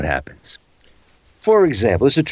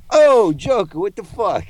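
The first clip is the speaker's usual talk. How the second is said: mock Italian-American Batman, higher; a pushy Italian-American Batman, higher pitched; 10 semitones higher, slower than usual. Batman scolds the Joker in a mock Italian-American accent. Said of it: "what if Batman were Italian?".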